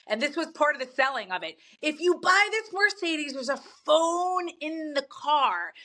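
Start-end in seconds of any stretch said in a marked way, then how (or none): 1.8-5.7 salesman pitch. Retold or imitated. Quoting the car sales pitch.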